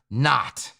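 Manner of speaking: "not" held back by a pause, then stated alone; pause, then drop "not" in with weight; stress on NOT. Shown as a demonstration. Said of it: "why am I stressing that word".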